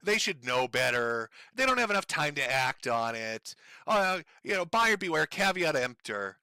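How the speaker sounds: dragged-out sarcastic impersonation of a dodging streamer; mocking excuses. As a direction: parrot his lame excuses back with contempt. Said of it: "your little bullshit excuses".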